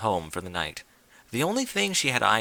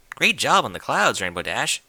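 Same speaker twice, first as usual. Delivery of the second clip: friendly passerby; 6 dB louder than usual. Acted. Unicorn pony compliments Rainbow.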